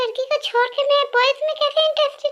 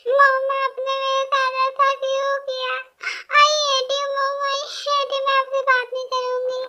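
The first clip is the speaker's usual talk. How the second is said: hammed-up sing-song crying lament; mock wailing. Bride wailing to the family about her marriage, hammed-up crying. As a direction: wail it out like a sulking bride. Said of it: "ऐसे रो क्यों रही हो".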